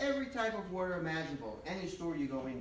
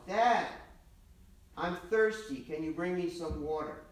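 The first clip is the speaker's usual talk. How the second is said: put-on raised, whiny kid calling from bed; child calling out; 3 semitones higher, 6 dB louder than usual. Boy calls from bed to his father, pleading. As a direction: call out like a thirsty boy stalling bedtime.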